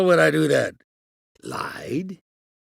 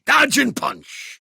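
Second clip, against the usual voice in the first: slower and higher, spelling it out; exasperated trainer barking the drill; impatient repeat; 12 semitones higher, much slower than usual. Shown as a demonstration. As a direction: drill it into a slow pupil. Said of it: "You deaf?".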